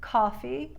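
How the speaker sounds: first "coffee" with o a little open; "coffee" without any drawn aw, slightly wide; slightly wider vowel. Shown as a demonstration. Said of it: "You'll never hear".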